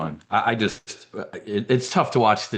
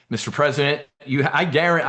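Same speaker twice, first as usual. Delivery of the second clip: rehearsed rant; 4 semitones higher than usual. Pretend. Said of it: "but you get the gist of it".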